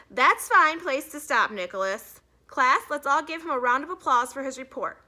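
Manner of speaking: a touch of stern teacher; firm teacher. A narrator's reading. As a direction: stop him politely but firmly. Teacher cuts him off.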